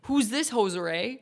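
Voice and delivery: lightly put-on Canadian; a touch of mock Canadian on the line; Canadian accent. Game character sizing up a lawyer, light Canadian accent. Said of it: "He's Canadian?".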